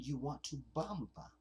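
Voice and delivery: a hint of an African accent on "You want to bamba?"; lightly voiced African accent. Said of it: "An African voice is saying".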